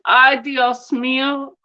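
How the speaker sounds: slow, drawn-out Spanish exclamation; mock Spanish outburst. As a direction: imitate an exasperated Spanish speaker. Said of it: "you'll piss somebody off".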